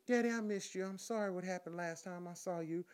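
a hint of a coaxing girlfriend; imitating the woman. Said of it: "this is what she proceeds to say".

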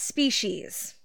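"species" set apart after a pause and given weight; pause, then lean hard on "species"; stress on species. Shown as a demonstration. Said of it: "may I emphasize the use of the word".

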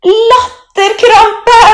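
very high, loud, drawn-out gasp; groaning with laughter. A narrator's reading. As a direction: moan it helplessly through giggles. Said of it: "stønner Emma". (stønnende latterkrampe)

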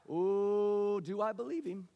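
hesitant, wavering self-question; waver, suddenly unsure; doubtful. Acted. Acts out doubt when push comes to shove.

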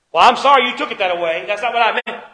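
mock a husband brushing off blame; defensive non-apology. Acting a defensive non-apology to wife.

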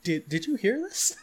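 laughing disbelief. Retold or imitated. Viewer turning to the crowd in the cinema, laughing disbelief. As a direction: ask it half laughing in disbelief. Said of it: "I was like".

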